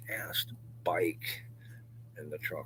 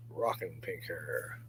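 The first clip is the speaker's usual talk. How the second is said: slow breathy whisper on the payoff; whispered punchline; 3 dB quieter, slower than usual. Real, not acted. To the stream about dad's pink hair, a slow whisper. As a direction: drop to a slow whisper for the joke.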